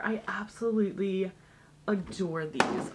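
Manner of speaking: breathy hushed whisper of delight. Real, not acted. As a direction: whisper it like a secret treasure. Gushing over the brush set.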